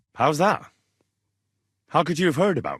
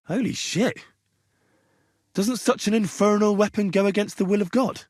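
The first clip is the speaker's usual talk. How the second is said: aghast outcry; 9 semitones higher than usual. Acted. Aghast at an infernal weapon.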